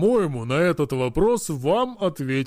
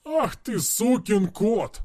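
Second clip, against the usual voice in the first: yelling; 5 semitones higher, slower than usual. Acted. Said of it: "заорал он".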